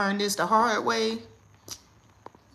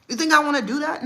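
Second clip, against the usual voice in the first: higher, louder exasperated question; retold scolding; 8 semitones higher, 8 dB louder than usual. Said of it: "I said".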